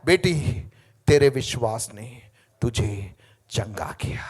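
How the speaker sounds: whispered. Acted. Voicing heaven's words softly.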